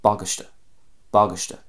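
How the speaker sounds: "bagaiste" as BAG-ish-tuh; stress on the start. Shown as a demonstration. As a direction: stress the first syllable of "bagaiste". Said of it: "emphasis at the start of the word".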